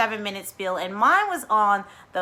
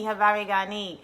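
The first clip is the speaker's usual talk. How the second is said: normal talking voice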